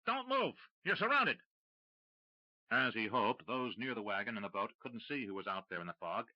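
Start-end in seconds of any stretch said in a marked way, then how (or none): 0.0-1.4 high, loud commanding shout; authoritative shout. Acted. Rue bluffing the smugglers, loud authoritative shout. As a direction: bark it with all the authority you can. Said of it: "with as much authority ... shouted".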